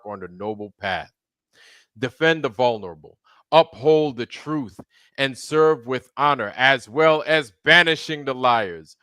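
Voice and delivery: grand ceremonial proclamation; solemn regal knighting. Acted. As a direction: speak like a king knighting someone.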